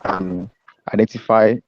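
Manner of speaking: barely there, breaking up; faint, dropping-out call audio; scrambled voice. Real, not acted. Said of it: "We can't hear you".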